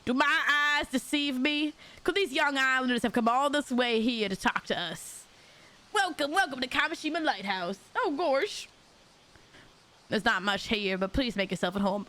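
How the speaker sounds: a hint of a grand, welcoming stranger; eager host who finally has visitors; lightly voiced foreign host.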